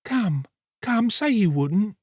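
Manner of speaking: put-on high girl's voice, sweetly pleading; tender. A narrator's reading. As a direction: coax him with a touch of tenderness, pitched high. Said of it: "sweetness of tone even to her voice".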